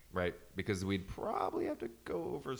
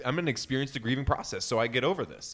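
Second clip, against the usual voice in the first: mocking grieving widows; 3 semitones higher, 8 dB louder than usual. Hosts mock grieving widows, loud whiny voice. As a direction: ham up a weepy widow vow. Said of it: "They say".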